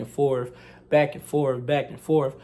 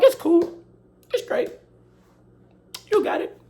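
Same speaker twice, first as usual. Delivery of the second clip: sarcastic; 13 semitones higher than usual. Retold or imitated. Sarcastic reply to teacher's threat.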